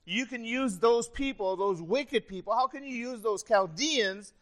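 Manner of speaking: high, loud, incredulous questioning; baffled pleading. Acted. Preacher as Habakkuk questioning God about Chaldeans, loudly bewildered. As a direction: plead for an answer, struggling to grasp it. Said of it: "trying to get his mind wrapped around this".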